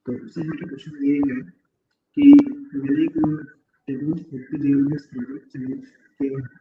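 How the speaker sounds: echoey big room sound. Real, not acted. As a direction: voice echoing in a large room. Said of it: "इको बहुत है".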